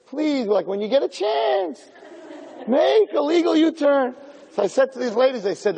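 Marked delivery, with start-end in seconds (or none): 0.1-4.1 higher, slow, polite satnav; gentle GPS voice. Pretend. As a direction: coax the driver kindly like a navigator. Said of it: "the G P S says".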